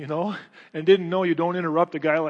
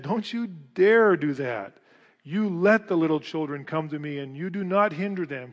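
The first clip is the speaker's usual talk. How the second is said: indignant Jesus; 5 dB louder than usual. Retold or imitated. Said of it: "He was angry".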